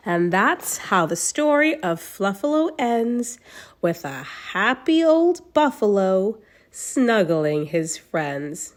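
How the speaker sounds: put-on reading to children. A narrator's reading. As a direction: read it like a bedtime picture book to a little one. Reads a picture book aloud.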